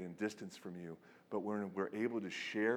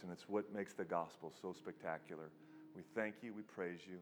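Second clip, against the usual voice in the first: earnest prayer, fading to a hush at the end; sincere, subdued pastoral prayer; closing prayer; 2 semitones lower than usual. Real, not acted.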